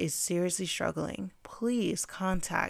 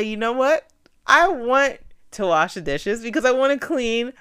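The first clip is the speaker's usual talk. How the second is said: enthusiastic self-talk; 3 semitones higher, 5 dB louder than usual. Shown as a demonstration. Coaching listeners through dishes self-talk, upbeat and loud. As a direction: sell yourself on wanting it.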